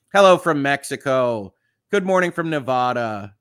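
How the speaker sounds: lightly put-on greeting voice for the American Southwest; a touch of playful Southwest announcer. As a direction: read out greetings with a hint of a Southwest voice. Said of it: "saying the American Southwest in this voice".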